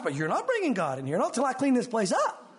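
lightly acted fussy wife; imagined wife objecting. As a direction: object like a wife with an untidy house. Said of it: "his wife".

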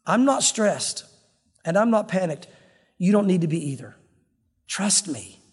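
unhurried, with gaps between phrases; calm Lord soothing a worrier; relaxed reassurance. Acted. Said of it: "the Lord is relaxing, saying".

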